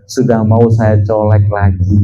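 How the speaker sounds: low, soft imitation of a relieved wife; lightly voiced wife reporting good news; grateful wife's message. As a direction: quote her thanks, dropping pitch and volume. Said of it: "Besoknya istrinya W A".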